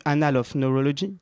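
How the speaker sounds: Annals of Neurology in a proud English accent; showing off an improved English accent. Shown as a demonstration. Host shows his English accent to his co-host, proudly. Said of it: "j'ai amélioré mon accent anglais".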